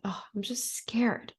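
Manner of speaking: a hushed, breathy whisper of fear; slow, voiceless confession of being scared; whispered admission. Retold or imitated. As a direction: barely voice it, small and scared. Retold breathwork session, admitting fear.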